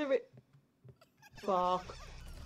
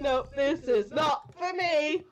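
frightened protest; 3 semitones higher, much slower than usual. Real, not acted. Frightened in chase.

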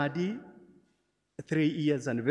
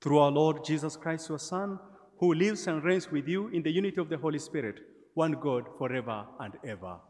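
solemn public prayer; 3 semitones higher than usual. Acted. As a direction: lift the prayer to the whole church. Prays the opening collect.

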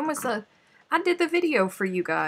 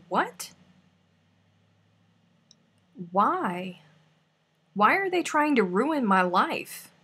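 dramatic dismay; 3 semitones higher, slower than usual. Real, not acted. Mock outrage at news.

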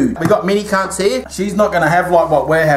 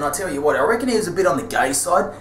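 softer, lower gossip aside; hushed faster gossip; confiding aside; 4 semitones lower, 5 dB quieter, faster than usual. Acted. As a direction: lean in and share gossip.

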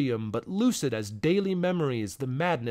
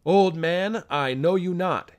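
perplexed; 4 dB louder than usual. Acted. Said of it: "he said perplexedly".

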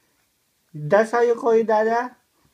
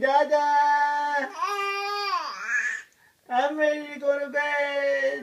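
calling Dada. Pretend. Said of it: "have to call my dada".

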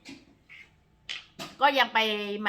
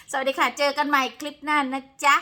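bright sign-off; 7 semitones higher, 9 dB louder than usual. Real, not acted. Cheerful sign-off.

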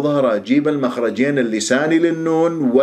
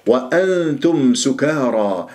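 slow tajweed phrase; Quran recitation demo; slower than usual. Shown as a demonstration. Teacher models the verse for students, slow recitation. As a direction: recite it measured, humming the hidden nun. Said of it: "إخفاء".

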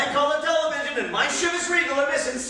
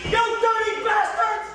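higher, dragged out yell; angry shout; 9 semitones higher, slower than usual. Acted. Husband yelling after the burglars. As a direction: hurl it after them.

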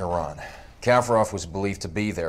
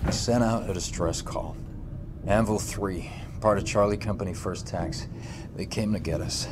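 subdued recounting; 7 dB quieter than usual. Acted. Sergeant telling interrogators about the distress call, subdued. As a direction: recall it quietly, with weight.

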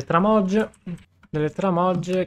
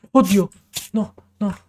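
startled gasp; 5 semitones higher, 4 dB louder than usual. Real, not acted. Startled by a noise.

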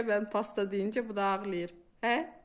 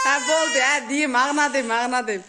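mock crying child; 4 semitones higher, 10 dB louder than usual. Mimicking crying child's whine.

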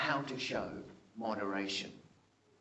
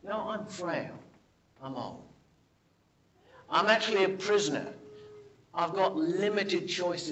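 humble appeal. Retold or imitated. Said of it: "He's saying".

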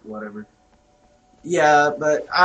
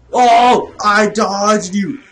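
loud, drawn-out exclamation; excited yell; 4 semitones higher, 7 dB louder, much slower than usual. Real, not acted. Gamer who dodged the attacker, excited yell. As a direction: crow over a narrow dodge.

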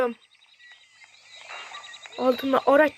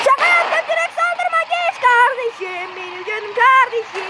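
mock pleading; 8 semitones higher than usual. Pleading with attacking player.

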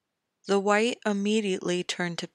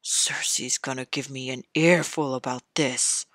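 grumbling king; 4 semitones lower than usual. Acted.

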